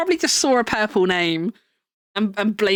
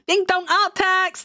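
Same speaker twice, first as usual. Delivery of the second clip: excited; 9 semitones higher than usual. Real, not acted. Gasp, announcing art tax.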